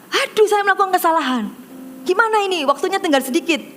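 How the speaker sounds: high-pitched mock complaint to the judge; imitated grumbling. Contestant complains to the jury about a mistake, grumbling. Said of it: "langsung dia ngomel".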